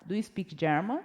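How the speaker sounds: rising question tune on "German"; questioning intonation. Shown as a demonstration. Teacher repeats the question for learners, "German" rising. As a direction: end on an upturned "German", as if asking. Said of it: "Com entonação, que é uma pergunta".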